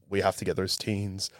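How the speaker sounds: soft, hushed whispered line; whispering. Retold or imitated. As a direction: whisper it like the original take. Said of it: "like, whispering".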